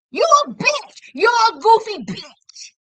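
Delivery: shouted high and loud, insulting; furious outburst. Real, not acted. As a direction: let her have it, full fury. Insulting the mother, enraged.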